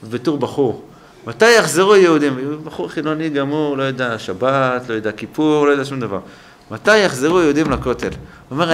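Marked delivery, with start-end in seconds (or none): 1.3-2.6 retold child's plea to God, loud and rising; pleading prayer. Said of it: "זו התפילה היחידה שהתפללתי". 6.7-8.1 retold child's plea to God, loud and rising; pleading prayer. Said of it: "זו התפילה היחידה שהתפללתי".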